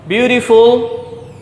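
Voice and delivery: Beautiful said slowly with a questioning rise at the end; sounded out again. Shown as a demonstration. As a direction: draw out Beautiful and lift the last syllable. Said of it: "It has three sounds".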